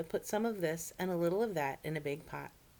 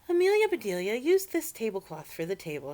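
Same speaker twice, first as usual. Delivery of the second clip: calling out; 5 semitones higher, 8 dB louder than usual. Acted. Missus Rogers calls Amelia.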